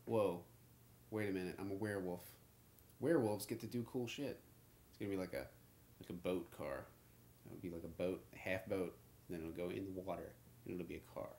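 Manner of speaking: low, growly monster voice; deep werewolf voice. Acted. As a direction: talk like a lumbering werewolf. Acts a werewolf character.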